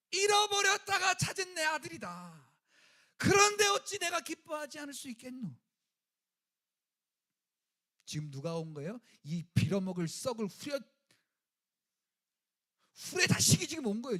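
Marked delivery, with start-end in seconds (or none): 0.1-5.5 loud, higher, rejoicing; father exulting over his returned son; joyful father. Acted. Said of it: "이 아버지가 뭐라고 말하냐면". 9.2-14.2 loud, spat-out insult; preacher playing the angry father cursing; mock curse.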